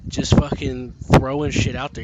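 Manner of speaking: usual speaking voice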